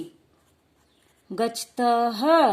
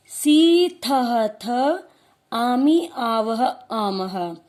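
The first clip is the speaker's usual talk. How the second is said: loud recitation; 3 dB louder, much slower than usual. Shown as a demonstration. Teacher leads the class to recite the suffixes loudly. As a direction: chant each suffix out loud, fading on the last. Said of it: "जोर जोर से बोलेंगे".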